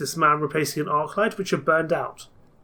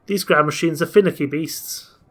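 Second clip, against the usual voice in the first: put-on Yorkshire accent. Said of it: "in a thick Yorkshire accent".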